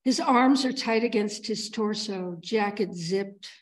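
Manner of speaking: deliberate verse cadence, lingering on phrase ends; poem reading. Acted. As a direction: read the poem line by line, unhurried, with pauses. Reads own poem aloud.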